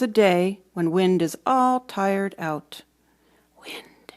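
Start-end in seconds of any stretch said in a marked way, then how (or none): 3.6-4.1 soft voiceless whisper. Acted. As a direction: whisper to find the tired wind. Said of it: "I whisper".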